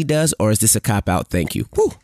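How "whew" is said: breathless, catching her breath; winded, puffing between words. Real, not acted. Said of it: "You out of breath?".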